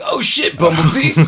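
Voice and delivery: high, loud panicked cry; Spike. Retold or imitated. Imitating a character flying away in a spaceship, mock panicked yell. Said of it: "Spike was like".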